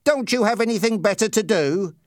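high-pitched, scornful challenge; mistrustful bully's question; suspicious. A narrator's reading. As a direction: needle him with suspicion. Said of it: "Raymond asked suspiciously".

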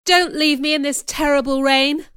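high, loud desperate plea; begging. A narrator's reading. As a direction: beg her not to shut the door. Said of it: "I begged".

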